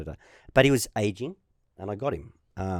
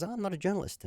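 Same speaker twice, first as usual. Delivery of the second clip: retold quote in a higher Spanish-accented voice; 10 semitones higher, 5 dB quieter, faster than usual. Man at press conference answering the player, Spanish accent. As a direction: lightly imitate a Spanish accent. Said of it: "sort of a Spanish accent".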